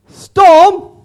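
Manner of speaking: loud, high call to repeat; rallying call. Shown as a demonstration. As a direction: call it out for the crowd to echo. Calling out for congregation to repeat.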